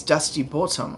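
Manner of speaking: "Bottom" said as "bultum", vowel rounded; accented pronunciation. Shown as a demonstration. Explaining why he's called Dusty Bottom, accented pronunciation. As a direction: put the accent on "Bottom", rounding it toward "boltum". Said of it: "like, accent came from".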